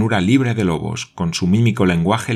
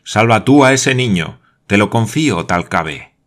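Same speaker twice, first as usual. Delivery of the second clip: exalted plea; 2 semitones higher, 6 dB louder than usual. A narrator's reading. Glenarvan begs Thalcave to save the boy, exalted and loud. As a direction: beg him to save the boy. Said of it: "en su exaltación".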